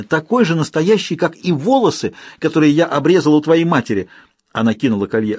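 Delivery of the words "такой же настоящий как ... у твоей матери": высокий громкий злорадный напор; торжествующе ударить словами; злорадно. Acted. Княгиня злорадно кричит. (княгиня злорадно бросает оскорбление)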